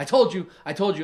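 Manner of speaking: mock hyped, triumphant, loud pumped-up shouting. Retelling what a player yelled at Kyle after scoring a touchdown: retelling a pumped-up yell. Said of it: "He's like all pumped up, yelling".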